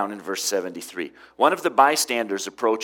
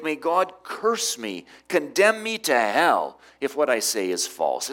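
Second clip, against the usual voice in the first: self-cursing oath; 4 semitones higher than usual. Acted. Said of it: "He invokes a curse on himself".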